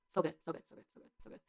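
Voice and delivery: fading into a breath-only whisper; swooning. Real, not acted. Fan overcome by the older character, swooning.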